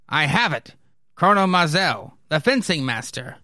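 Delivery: lightly acted, earnest officer; officers in council.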